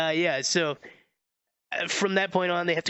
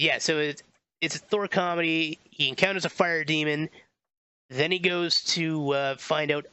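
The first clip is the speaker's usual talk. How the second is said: ordinary talk, nothing marked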